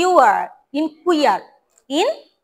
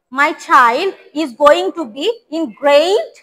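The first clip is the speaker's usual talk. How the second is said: very slow, clear drill; slow model reading; much slower than usual. Shown as a demonstration. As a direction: spell it out word by word for the class. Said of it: "কি reply দিল?". (ধীরে ধীরে স্পষ্ট করে বলা)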